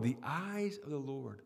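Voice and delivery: the eyes of the Lord said softly and low; preacher musing quietly on the phrase; soft repeat. Real, not acted.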